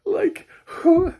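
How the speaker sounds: high, loud laughing cry; cry of disbelief. Real, not acted. Laughing in disbelief at the recommender. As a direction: squeal out the question in disbelief.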